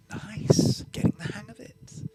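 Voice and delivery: a hint of Seraph leaning in, no Decilium accent; Seraph without accent. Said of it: "she seems to have dropped her Decilium accent".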